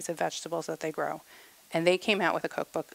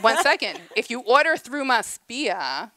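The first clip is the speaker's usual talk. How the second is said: excited; 5 semitones higher, 5 dB louder than usual. Real, not acted. Laughing, then raising voice.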